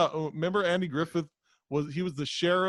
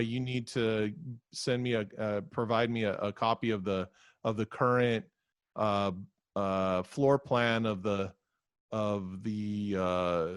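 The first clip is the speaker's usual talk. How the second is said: low, slow bureaucrat drone; droning clerk voice; 5 semitones lower than usual. Retold or imitated. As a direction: drag it out like a bored clerk.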